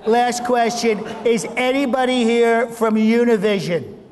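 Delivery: Trump impression. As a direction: wrap up the crowd like Trump.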